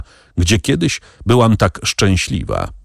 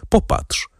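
breathy whisper of Popatrz; barely voiced Popatrz; hushed plea to look; 4 dB quieter than usual. A narrator's reading. Woman unveils her face.

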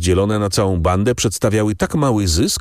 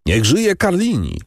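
raised, much higher cheer; bandits cheering; 11 semitones higher than usual. A narrator's reading. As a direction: cheer him like a rowdy crowd. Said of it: "zawołali bandyci". (okrzyk na cześć, znacznie wyżej)

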